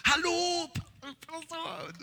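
high, bright-pitched mock woman's greeting. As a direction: voice Olga sweetly greeting the pastor.

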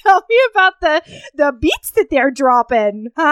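teasing mock U P accent. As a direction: tease your friend in a put-on U P accent. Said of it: "sound like you're from the U P".

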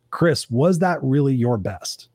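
slow, deliberate challenge; slow self-questioning. Retold or imitated. Asking himself after a presentation, slow and pointed. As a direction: put the question to yourself, word by word.

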